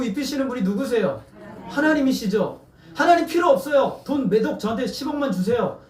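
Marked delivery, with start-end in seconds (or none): 2.9-5.8 mock complaint. Mocking the people's demand.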